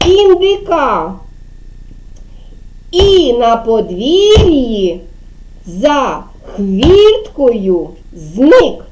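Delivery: put-on slow, expressive poem reading to children. Shown as a demonstration. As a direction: read the rhyme slowly for kids. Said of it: "Я буду вам читати вірш". (повільне виразне читання віршика дітям)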